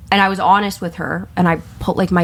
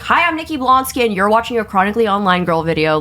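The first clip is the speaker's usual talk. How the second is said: bright, high chirpy intro voice; a cheery celebrity greeting, pitched up; pretend Nikki Blonsky intro; 3 semitones higher than usual. Friend imagining the actress's cheerful endorsement intro. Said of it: "if she literally was like".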